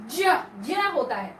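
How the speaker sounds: "ज, ज" drawn out slowly, pure sound; slow correct pronunciation. Shown as a demonstration. Teacher slowly models the pure sound. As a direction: articulate ज deliberately, slowly. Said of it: "इसका उच्चारण जो शुद्ध होता है वो".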